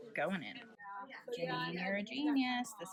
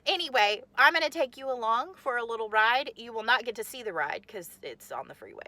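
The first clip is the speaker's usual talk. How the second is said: normal talking voice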